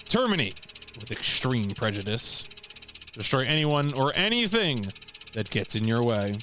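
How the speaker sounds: formal, measured briefing narration; mission briefing read. Acted. Player reading assassination orders aloud, formal briefing read. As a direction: read it out like official orders, pausing between phrases.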